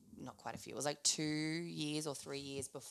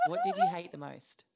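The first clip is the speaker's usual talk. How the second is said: very high, cartoonish squeak; squeaky high voice; 5 dB louder than usual. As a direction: squeak the question playfully. Squeaky playful question.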